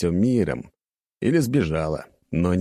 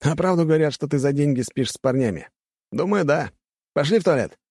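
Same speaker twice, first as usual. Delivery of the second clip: mocking rich boy; 8 semitones higher than usual. A narrator's reading. Students mocking.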